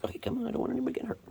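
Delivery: hurried whisper, fast. Real, not acted. Farmer whispering quickly so no kitten gets hurt.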